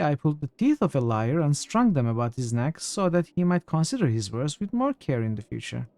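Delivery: proud boastful warrior. Acted. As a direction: swell with pride in victory. Reads NPC dialogue.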